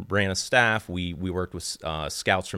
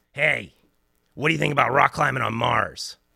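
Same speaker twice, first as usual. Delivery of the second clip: real nasally phone voice, high and creaky; 6 semitones higher, 3 dB louder than usual. Retelling a phone interview where the caller never introduced himself, in a nasally voice. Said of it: "in this real nasally voice".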